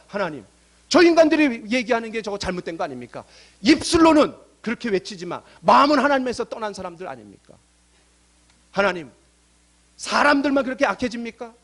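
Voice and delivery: acted prophet's lament, not fully wailed; mock crying out. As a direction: plead upward in mounting indignation, a touch of a wail. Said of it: "라고 막 울부짖는 거예요".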